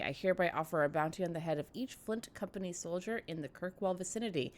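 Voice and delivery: reading with candy in mouth; mouth full. Real, not acted. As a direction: talk around a mouthful of jelly beans. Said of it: "I have jelly babies in my, uh, jelly bellies in my mouth".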